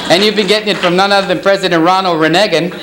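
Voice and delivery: lightly voiced politician on stage; Jimmy Carter. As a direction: do a mild impersonation of a former president. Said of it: "My name is Jimmy Carter".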